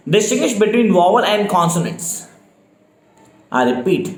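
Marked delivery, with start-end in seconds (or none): 0.1-2.1 very slow, each word spelled out for note-taking; slow dictation. Shown as a demonstration. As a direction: dictate it slowly so students can write. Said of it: "speed definitely slow है मेरी". (धीमी गति से dictation)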